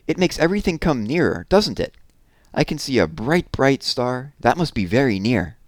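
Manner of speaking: high, eager little owl voice; a wide-eyed baby owl marvelling at the stars; excited little owlet; young owl Plop. Acted.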